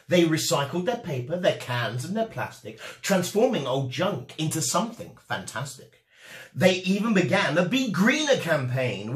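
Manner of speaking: lively storybook narration with rhyme and bounce; reading to children. A narrator's reading. Host reading a rhyming picture book to children, lively. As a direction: read it like bedtime story time for kids.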